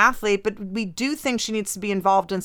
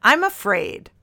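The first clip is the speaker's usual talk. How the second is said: mock dramatic reading; 4 semitones higher, 3 dB louder, slower than usual. Shown as a demonstration. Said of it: "Dear Carolyn".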